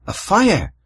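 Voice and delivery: mock Irish accent with a big pitch swoop; exaggerated Irish lilt. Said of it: "say that in an Irish accent".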